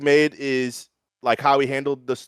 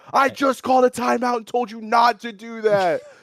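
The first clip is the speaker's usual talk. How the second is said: put-on screaming, higher; 10 semitones higher than usual. Retelling what they screamed at a teammate during a game: imitating own screaming. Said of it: "I'm screaming".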